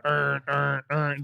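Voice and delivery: short repeated "urn" noises; imitated repeated noise. Host imitates the boy on the fence, repeated noises. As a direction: mimic a repeated droning sound. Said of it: "he's going".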